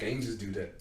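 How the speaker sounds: muttering. Retold or imitated. Retold mumble walking out.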